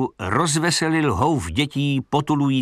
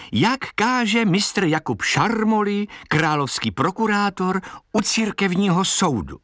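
showwoman's question; 9 semitones higher than usual. A narrator's reading. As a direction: sing out the question, pitched up. Girl performing questions to her goat.

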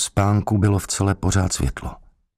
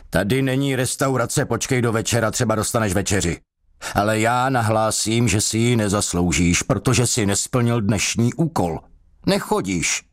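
mocking jailer; 5 semitones higher than usual. Jailer mocks thirsty prisoner.

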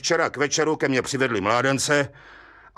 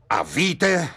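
mild agitated outburst; blurted out agitated; 2 semitones higher than usual. Acted. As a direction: let it burst out, a touch worked up. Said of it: "vyhrkl rozčileně".

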